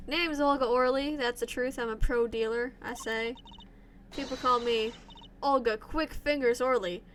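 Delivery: lightly put-on Russian accent for the witness. Witness testifying in court, light Russian accent. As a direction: voice the card dealer with a hint of Russian. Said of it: "Don't know where this accent came from".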